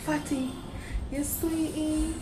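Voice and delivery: Jamaican catcall. Retold or imitated. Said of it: "they be like".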